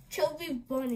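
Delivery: mushy words, stuffed cheeks; mouth full. Real, not acted. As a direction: say it through marshmallows.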